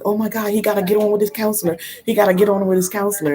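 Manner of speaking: fast, frantic mock of a worried grandma; frustrated grandma. Grandmother on the phone, frantic about the counselor, fast. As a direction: rattle it off like a flustered grandmother. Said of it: "she was all frustrated".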